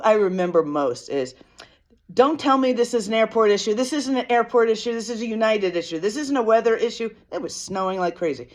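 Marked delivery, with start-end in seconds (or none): 2.1-7.1 lightly voiced complaining Karen, higher pitched; indignant, insistent airport complaint, mildly acted; irate Karen. Passenger Karening out over a delayed flight, mock indignant. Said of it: "was Karening out a little bit".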